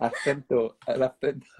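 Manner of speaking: "acento" with a th for c, Spain Spanish; Castilian accent. Retold or imitated. Friend echoing the demo of Spain, Castilian accent. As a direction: imitate a Castilian accent lightly.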